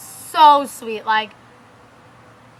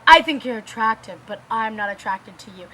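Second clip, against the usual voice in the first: lower, matter-of-fact imitation of him; retold male friend; 5 semitones lower than usual. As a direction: lightly voice his blunt rejection. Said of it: "all of a sudden he's like".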